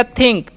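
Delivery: "थिंक" with short इ and nasal N before क; teacher's model of "थिंक"; demonstrated pronunciation. Shown as a demonstration. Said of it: "एन का अनुस्वार".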